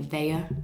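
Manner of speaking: "theya" said with an extra syllable, like thay-uh; Burnley "theya". Shown as a demonstration. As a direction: stretch "theya" into two beats, Burnley style. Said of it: "people would say".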